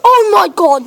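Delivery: gasp, then slow high wonder; gasping amazement. Real, not acted. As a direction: breathe it out in awe. Gasp at unknown item.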